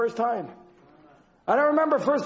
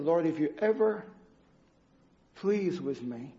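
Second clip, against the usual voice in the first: hushed plea; 5 semitones lower, 6 dB quieter than usual. Retold or imitated. Pleading prayer by the bed.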